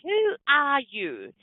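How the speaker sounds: high, very slow disbelieving question; incredulous demand. Retold or imitated. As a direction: imitate a stunned man demanding an answer. Retold man demands who she is.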